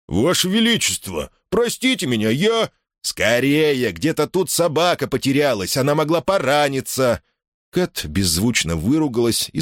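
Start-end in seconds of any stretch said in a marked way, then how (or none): 0.1-2.7 breathless servant, high and gasping; out of breath. A narrator's reading. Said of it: "голос запыхавшегося лакея". 3.0-7.2 urgent queen. A narrator's reading. Queen urging, worried.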